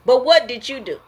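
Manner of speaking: imitating a defensive arguer; mock accusing blame. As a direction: throw the blame back at them. Voicing a blaming person.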